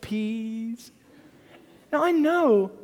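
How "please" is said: put-on very soft, tiny child's please; toddler begging. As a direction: plead like a little boy reaching for a knife. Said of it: "and he goes".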